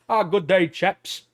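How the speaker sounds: hammed-up British gent greeting; badly faked British accent, tossed off cheerily; shit British accent. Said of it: "That's such a shit British".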